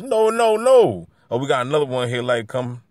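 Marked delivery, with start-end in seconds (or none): 0.0-1.1 higher, louder, insistent refusal; rising loud denial; emphatic no. Real, not acted. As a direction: shut the idea down hard. Rejecting the mocked opinion.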